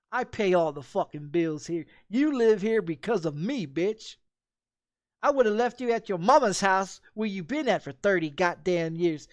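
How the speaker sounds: loud yell at the wife; retold angry yell. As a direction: let the anger spill over at her.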